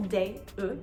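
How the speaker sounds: de then e, schwa held alone; isolated schwa sound. Shown as a demonstration. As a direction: break de down to the bare e. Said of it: "at the end of the syllable".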